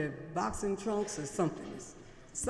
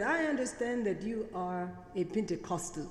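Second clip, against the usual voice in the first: put-on Singaporean accent. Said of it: "I'll try to use my best Singaporean accent today".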